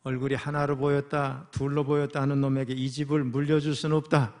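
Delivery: tipsy father's slurred scolding; drunk slurring. Retold or imitated. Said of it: "혀가 다 꼬부라진 목소리로".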